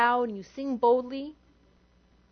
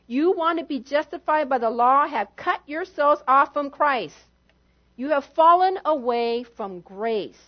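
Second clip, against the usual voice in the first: mild mean tone. Retold or imitated. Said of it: "just read it with a mean tone".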